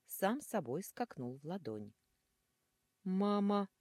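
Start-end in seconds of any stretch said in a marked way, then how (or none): 3.1-3.7 a high, loud terrified cry; frightened bleat. Acted. Otherworldly grooms crying out in fright, high and loud. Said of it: "проблеяли потусторонние женихи".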